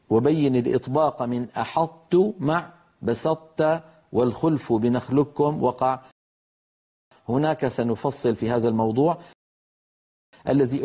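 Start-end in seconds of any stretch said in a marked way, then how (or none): 0.1-6.0 slow chanted didactic verse; measured recitation of a teaching poem; poem recital. Shown as a demonstration. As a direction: recite the Jazari verse steadily. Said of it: "عند قول الجزري".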